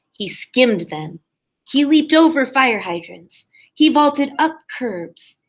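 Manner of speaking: lively storybook reading for a class; expressive read-aloud to young listeners; reading to children. A narrator's reading. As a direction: read it like a kindergarten teacher at story time. Teacher reads picture book aloud.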